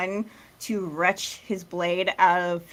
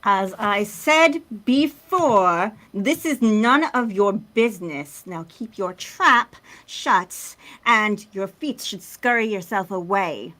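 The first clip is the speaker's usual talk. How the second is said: haughty scolding character; 3 semitones higher, 6 dB louder than usual. Acted. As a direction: send the meddler packing, loud and deliberate. In-character rebuke of the intruder.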